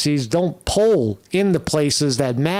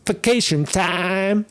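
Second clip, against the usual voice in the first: drawn-out, higher mock Southern accent; 5 semitones higher, slower than usual. Host echoing Harris on vacation time, mock Southern accent. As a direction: stretch it out in a parody Southern accent. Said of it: "a fucking accent".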